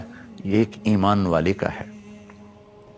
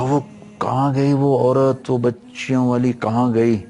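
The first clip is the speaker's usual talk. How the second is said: raised-pitch mild mock wail; retold frantic cry; 3 semitones higher than usual. Sardar wakes from the dream searching for the woman, retold frantic cry. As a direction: lightly act out crying out in panic. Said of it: "اس کی چیخ و پکار".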